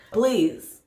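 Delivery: put-on coaxing like a kids show host; preschool teacher. Shown as a demonstration. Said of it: "I sound like a preschool teacher".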